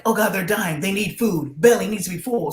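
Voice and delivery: hammed-up fretting over skinny kids; grandma panicking that the girls are starving; mock panic. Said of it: "she's freaking out".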